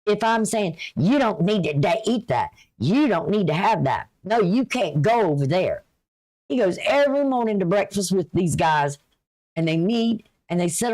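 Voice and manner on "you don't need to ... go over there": lightly acted scolding, leaning on each "you"; mildly bossy telling-off with swooping emphasis; mock nagging. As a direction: imitate a nagging partner laying down rules. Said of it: "I don't, I don't nag".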